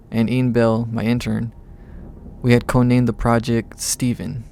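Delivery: measured audiobook-style read; story narration. A narrator's reading. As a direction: narrate the tale evenly in first person.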